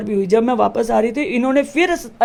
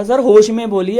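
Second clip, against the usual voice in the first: stern rebuke; 5 dB louder than usual. Retold or imitated. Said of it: "ये word बोला".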